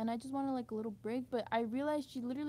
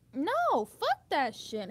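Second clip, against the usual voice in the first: loud no, then a slow heavy curse; real anger breaking through; angry; 2 semitones higher, 4 dB louder, much slower than usual. Real, not acted. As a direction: spit it out, fed up. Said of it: "why I'm so angry".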